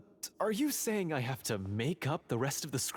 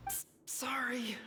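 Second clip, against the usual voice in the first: whisper; 12 semitones higher, 4 dB quieter, slower than usual. Real, not acted. Hushed apology after being told.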